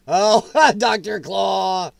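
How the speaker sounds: slow, laughing cry of recognition; drawn out with a laugh; delighted recognition. Real, not acted. Recognizing a cartoon villain.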